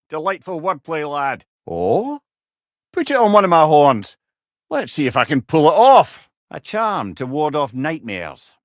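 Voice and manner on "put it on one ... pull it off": straining with effort. Real, not acted. Trying to lift a heavy thing.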